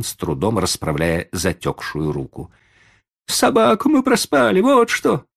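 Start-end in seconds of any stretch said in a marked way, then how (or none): 3.3-5.2 high, loud, irritated retort; irritated, rude. Acted. Boy answering grandfather rudely, irritated and loud. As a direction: snap back rudely. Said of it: "раздражённым голосом грубо ответил мальчик".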